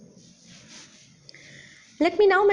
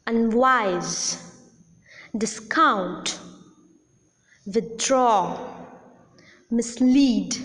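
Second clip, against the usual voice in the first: unWISE, disCOUNT, withDRAW, misLEAD; weak prefix and strong root in unwise, discount, withdraw, mislead; unstressed prefixes; much slower than usual. Shown as a demonstration. Teacher gives prefix examples unwise, discount, withdraw, mislead, stressed on the root. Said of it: "The prefixes are never accented".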